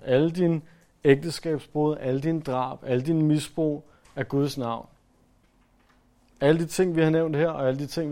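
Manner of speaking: loud, rising preacher's list, each dine hit hard; preaching at full force. Acted. Preacher listing a congregation's sins to them, loud preaching. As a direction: hammer out the sins one by one.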